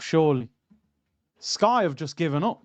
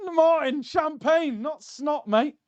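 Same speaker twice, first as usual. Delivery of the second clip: laughing; 10 semitones higher, slower than usual. Real, not acted. Laughing correction of friend's joke.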